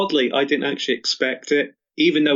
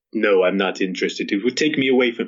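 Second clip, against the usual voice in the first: put-on French accent. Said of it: "giving him a French accent".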